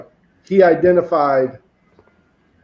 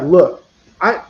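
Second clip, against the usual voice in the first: put-on kid voice. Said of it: "in this kid voice".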